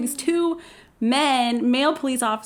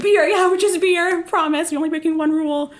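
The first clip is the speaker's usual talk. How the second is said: higher, louder sing-song fib; mock innocent; 7 semitones higher, 4 dB louder than usual. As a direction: play innocent, overly sweet. Faking innocence to police.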